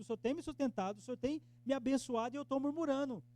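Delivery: loud, high pleading confession; confessing prayer. Acted. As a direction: pour out a plea to the Lord. (oração de confissão, alta e suplicante)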